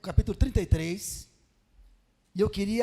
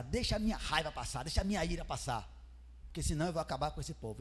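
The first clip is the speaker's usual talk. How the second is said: low, softened voice thinking aloud; musing God; 4 semitones lower, 7 dB quieter than usual. Acted. Preacher voicing God letting his anger pass, subdued musing. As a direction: hold it back, low and soft.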